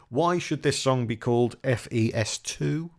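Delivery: slow, drawn-out riddle voice; quiz master voice. Acted. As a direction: pose it like a game-show puzzle. Quiz question posed to co-host.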